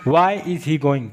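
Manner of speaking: very slow, every word stretched; teacher's drawn-out example; slow demo. Shown as a demonstration. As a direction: drill it slowly for learners. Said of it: "तो ये हम क्या बोलेंगे".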